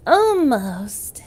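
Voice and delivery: unvoiced whispered word. Shown as a demonstration. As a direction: breathe it out. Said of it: "I could sound any way I want".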